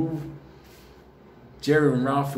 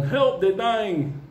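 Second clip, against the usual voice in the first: mock phone call; 7 semitones higher, much slower than usual. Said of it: "imagined lady on phone".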